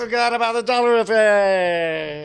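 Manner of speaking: loud fly-by with pitch adjusted; corrected whoosh, pitch bending; passing by doppler. Pretend. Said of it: "correct the Doppler effect because then you'd have to adjust for pitch".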